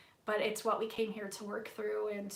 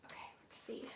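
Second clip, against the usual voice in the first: whisper; 16 dB quieter, much faster than usual. Real, not acted. Whispering to herself over cards.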